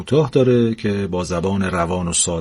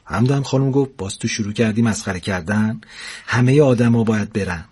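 lively storyteller reading a funny tale; story narration; 3 semitones higher than usual. A narrator's reading. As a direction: read it like a comic bedtime story. Narrator reads humorous story aloud. (روایت داستان طنز)

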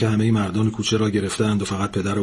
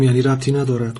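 put-on girl's question pushed higher and louder; upset raised voice; 6 semitones higher, 6 dB louder than usual. Girl snapping at Maryam, louder and upset. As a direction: demand it, cross and loud.

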